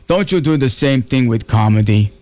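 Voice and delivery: Austrian-accented bodybuilder impression, measured and deliberate; Arnold. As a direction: count off the workout like an Austrian strongman. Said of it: "he said to me".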